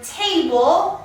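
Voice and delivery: "table" with a long A, as the letter's name; teacher's clear "table", long A; long A sound. Shown as a demonstration. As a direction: stretch the A in "table" into ay. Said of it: "it's making an A sound".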